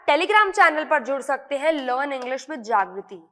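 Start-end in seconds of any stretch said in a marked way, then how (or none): 1.8-3.2 slow promo read. Shown as a demonstration. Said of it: "channel name promo".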